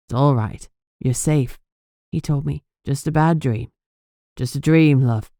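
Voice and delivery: calm her down after a bad dream; soothing. Robbie soothes her after nightmare.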